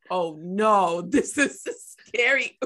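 mock-frightened child, rising high and loud; scared little kid. Retelling a first viewing of a music video, mock-scared little kid. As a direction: build to a slow, high, laughing protest. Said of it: "as a little kid".

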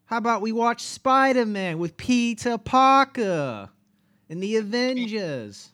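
high-pitched, hammed-up British accent; mock British accent. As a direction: put on a cartoonish Brit voice. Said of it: "do it with a British accent".

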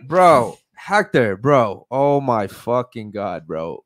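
loud, thrilled shouting at a friend's name; real joy as a friend drops in, loudly; excited shout. Real, not acted. Friend Hector shows up in chat.

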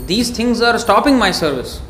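self-reproach. Retold or imitated. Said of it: "he condemned himself".

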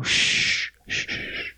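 whispered shush; hushed shushing. Retold or imitated. Sneaking in, shushing.

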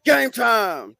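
loud answering shout; hype response. Acted. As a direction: yell it back.

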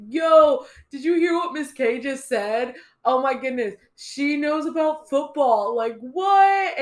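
put-on high, loud, excited kids gossiping. Kids telling the class about the teacher, excited. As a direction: mimic the kids buzzing with shock.

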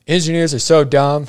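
mocking the stranger. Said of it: "And he's like".

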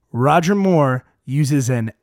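slow, deliberate, word by word; very slowly. Shown as a demonstration. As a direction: spell it out slowly for everyone. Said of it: "I'm gonna say this very slowly".

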